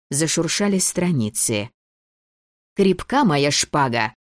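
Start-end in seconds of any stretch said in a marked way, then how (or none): 2.8-4.1 звонкий выкрик. Acted. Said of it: "звонко выкрикнула Дебби".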